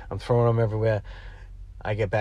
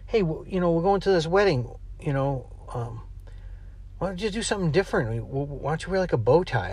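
higher wife voice; 5 semitones higher than usual. Retold or imitated. Quoting his wife's suggestion.

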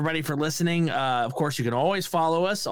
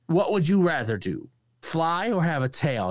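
higher-pitched star impression, slowing at the end; Christopher Walken; 4 semitones higher than usual. Imitating a star quizzing a comedian, halting higher voice. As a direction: pose it as a halting, odd riddle. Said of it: "And he's like".

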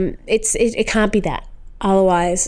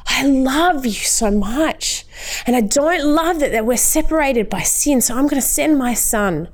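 higher, heartfelt declaration of love; voicing God lovingly; 5 semitones higher than usual. God telling a person they are loved, higher, heartfelt voice. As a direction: speak as a loving God, moved. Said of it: "God saw you and he was like".

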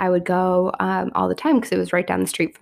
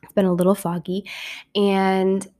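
hoarse voice from a real cold; sick voice. Real, not acted. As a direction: talk through a head cold, raspy. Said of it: "you get the Phoebe drawl in me today".

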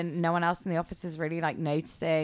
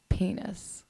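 put-on British accent; 6 dB quieter than usual. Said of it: "British style".

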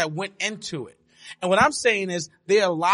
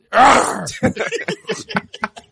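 bear growl laugh; 5 semitones higher, 5 dB louder than usual. Acted. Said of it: "that didn't sound like a bear".

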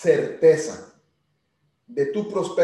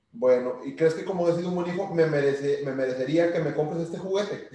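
niño que convence. Retold or imitated. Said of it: "sí le digo".

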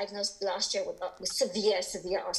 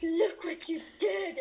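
laughing quote; 8 semitones higher, slower than usual. Retold or imitated. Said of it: "he was like".

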